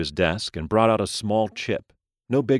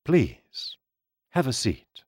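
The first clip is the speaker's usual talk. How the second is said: aging gentleman voice; 7 semitones higher, slower than usual. Acted. Mister Lee speaks.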